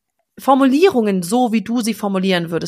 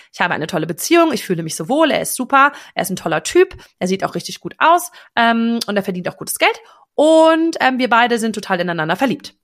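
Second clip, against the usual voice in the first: rattled-off wish list; faster than usual. Shown as a demonstration. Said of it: "wenn du das so liest".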